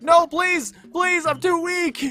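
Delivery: fake-pathetic plea to the copyright striker; mock pleading. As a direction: whine it like a pitiful victim. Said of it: "I'm like".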